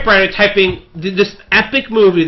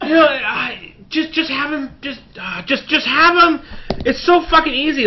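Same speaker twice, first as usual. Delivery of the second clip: laughing exasperation; 6 semitones higher than usual. Real, not acted.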